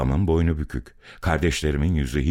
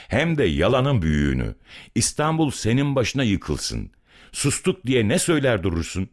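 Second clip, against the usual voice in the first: weighty, indignant accusation, pitch climbing higher as it goes; heavy angry reproach; 6 semitones higher than usual. A narrator's reading. Young man accusing the blustering old man, heavy and angry. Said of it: "Ağır, okkalı, öfkeli".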